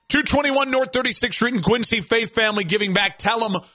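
brisk sponsor read at a quick clip; radio sponsor read. Acted. Host reading the dealership sponsor spot, brisk ad read.

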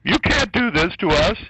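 sarcastic high whine, rising on can't; mock whining mayor. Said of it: "all of a sudden".

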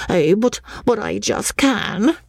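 put-on slow, high-pitched boy, darkly triumphant; gloomy triumph. A narrator's reading. Schoolboy insists he can name the ghost, gloomy triumph. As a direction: draw it out high, a child sure he wins. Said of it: "with an air of gloomy triumph".

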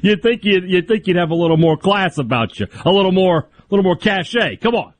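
teasing posh disapproval; mock haughty scolding. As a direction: sniff at his lack of class. Mock disdain at pocket square.

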